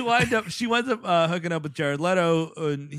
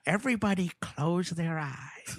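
mock trailer announcer; 5 semitones higher than usual.

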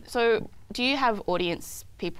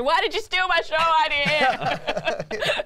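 mock accusing question; 8 semitones higher, 3 dB louder, much slower than usual. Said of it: "I'll ask a question".

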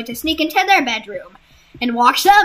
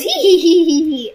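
mock giggle; 3 semitones higher, 4 dB louder than usual. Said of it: "she says".

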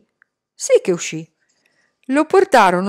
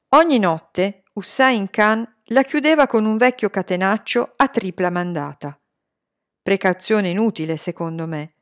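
ordinary delivery

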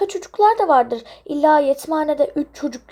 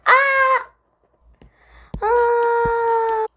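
scared screams; 3 semitones higher, much slower than usual. Acted. Startled kids screaming in fright. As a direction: scream in short bursts.

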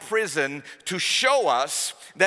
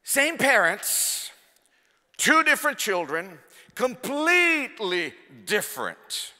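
rising preacher's shout, louder and higher; fervent preaching; 7 semitones higher, 4 dB louder than usual. Real, not acted. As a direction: hammer home the point from the pulpit. Preaching at full force.

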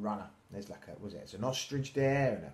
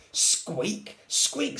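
high, loud squeaks; little mouse squeak; 9 semitones higher, 6 dB louder than usual. A narrator's reading. Little Mouse answering the lion, high squeaking. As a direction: pipe up like a mouse. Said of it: "said Little Mouse".

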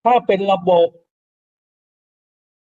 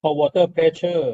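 slow term; much slower than usual. Shown as a demonstration. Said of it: "เราเรียกว่า".

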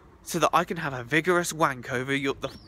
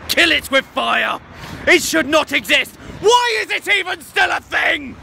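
mock horror rant; 9 semitones higher, 8 dB louder than usual. Hearing a band, loud hammed-up rant. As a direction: rant at the music as if it were a monster.

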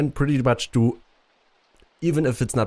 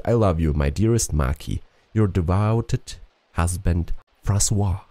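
measured, expressive letter reading; letter read aloud. Acted. Husband writing to his wife before sailing from Marseille, letter reading. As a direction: read it out as a heartfelt farewell letter.

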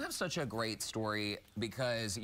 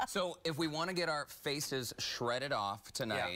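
laughing; 3 semitones higher, slower than usual. Real, not acted. Host jokes after laughter.

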